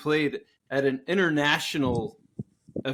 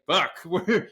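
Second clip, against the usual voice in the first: much higher, laughing through the words; breathless laughing glee, much higher; laughing disbelief; 6 semitones higher than usual. Retold or imitated. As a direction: cackle with giddy triumph. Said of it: "I can only imagine them being like".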